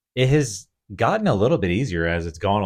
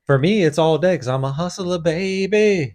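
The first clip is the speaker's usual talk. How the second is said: high, swaggering hustler voice; hustler boast; 10 semitones higher, 4 dB louder than usual. Pretend. Husband bragging he's a hustler, high swagger. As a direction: brag like a slick hustler.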